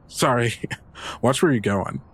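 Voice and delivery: snickering apology, chuckling through it; laughing. Acted. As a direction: laugh it off carelessly. Dylan mocking after bumping.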